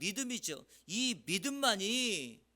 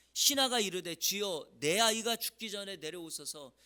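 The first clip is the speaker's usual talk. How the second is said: emphatic scripture reading; 5 dB louder than usual. Shown as a demonstration. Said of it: "이렇게 말해요".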